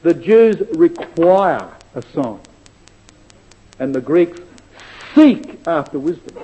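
slow and weighty, each phrase set apart; slow, deliberate reading. Shown as a demonstration. Preacher telling congregation to listen carefully, slow and deliberate. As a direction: read it slowly so they catch every word. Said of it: "Listen carefully".

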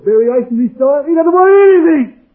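rising to a high, loud finish; emphatic preaching climax. Real, not acted. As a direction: build and cry out the last phrase. Climax of list of non-wants.

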